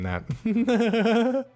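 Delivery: mock character voice, drawn out; playful put-on voice. Streamer joking about never stopping voices, playful and drawn out. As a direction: slip into a silly voice to finish.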